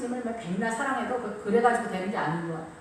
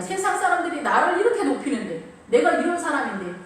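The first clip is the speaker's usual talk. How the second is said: lightly acted boastful husband, pushed a bit higher; self-important husband; 3 semitones higher, 4 dB louder than usual. Husband boasting to his wife and children, mock self-important. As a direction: puff yourself up as a mock king of the house. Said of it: "남편이 얘기하는 거야".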